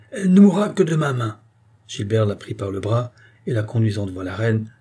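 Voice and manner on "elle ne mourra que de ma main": high, loud threatening cry; cried out. A narrator's reading. Enraged woman threatening the queen, crying out high. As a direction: cry it as a furious vow. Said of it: "cria-t-elle".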